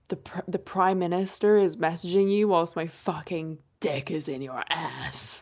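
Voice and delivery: put-on improvised dirty talk in an American accent. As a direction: murmur it with an American twang. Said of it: "you went American".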